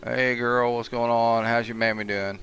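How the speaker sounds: talking to a pet; cooing hey girl greeting; sweet-talking. Pretend. Greeting a chicken in game.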